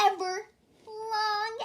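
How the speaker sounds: loud, high, slowing bellow. A narrator's reading. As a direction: stretch it out, loud and long. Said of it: "I bellowed out the loudest".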